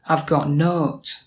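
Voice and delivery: slow Yorkshire "note" with an open aw vowel; Yorkshire nowt. Shown as a demonstration. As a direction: draw out "nowt" as "nawt". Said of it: "Nothing can be note".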